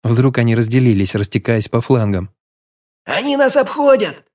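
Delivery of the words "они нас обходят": high panicked cry; alarmed shout. A narrator's reading. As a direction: yell the warning in alarm. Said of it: "закричал один из легионеров". (испуганный крик легионера)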